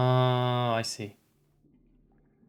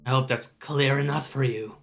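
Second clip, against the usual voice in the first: menacing raspy zealot. Acted. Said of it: "when I do this guy's voice".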